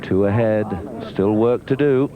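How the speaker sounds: rising excitement. Real, not acted. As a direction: lift the voice with growing thrill. Lead after putt.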